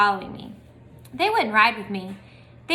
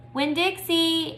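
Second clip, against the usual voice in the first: slow call; 7 semitones higher, much slower than usual. A narrator's reading. Calling dog in jungle.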